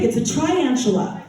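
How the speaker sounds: "triantula" said as try-antula; Utah mispronunciation. Retold or imitated. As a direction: say try-antula as if it's right. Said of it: "I was like".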